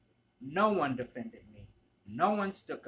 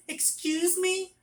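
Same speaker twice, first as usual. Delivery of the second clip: very high, loud, drawn-out mock indignation; offended customer; 5 dB louder, slower than usual. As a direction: mimic her affronted squeal. Retold offended customer's comeback.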